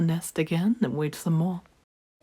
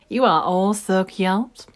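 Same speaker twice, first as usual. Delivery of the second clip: joyful; slower than usual. Acted. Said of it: "said Mama Duck with joy".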